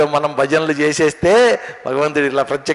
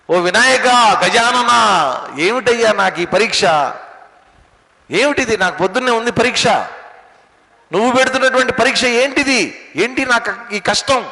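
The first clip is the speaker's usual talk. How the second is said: high-pitched pleading outcry to a god; anguished cry out; 5 semitones higher than usual. Retold or imitated. Boy before an exam crying out to Vinayaka, anguished high-pitched plea. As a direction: call out in protest, pitched well above usual. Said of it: "గట్టిగా అరిచాడు".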